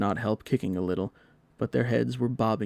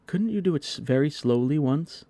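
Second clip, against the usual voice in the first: eager plea; 6 semitones higher, 4 dB louder than usual. A narrator's reading. John pleading.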